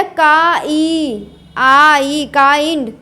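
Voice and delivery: काइंड sounded out slowly as "kaa-ee", then "kaaind"; drawn-out vowel. Shown as a demonstration. Teacher showing how the i is said, vowel drawn out in काइंड. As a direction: stretch the "aa-ee" glide in काइंड. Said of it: "जब आई उच्चारण करेंगे तब कैसे".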